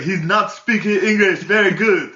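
high, loud, laughing through it; mocking cop voice. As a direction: squeal it out like a panicked cop. Cop on phone, laughing retelling.

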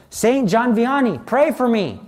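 retold cry for intercession; urgent plea. Calling on a saint in panic.

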